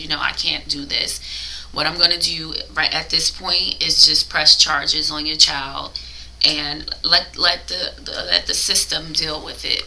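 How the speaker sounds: usual speaking voice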